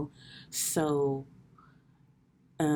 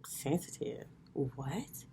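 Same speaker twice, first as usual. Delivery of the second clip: softer whispered disbelief; stunned whisper; 7 dB quieter, much slower than usual. Retold or imitated. Hearing her friend call her sensitive, whispered disbelief. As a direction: breathe it out in shock. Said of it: "And I was like".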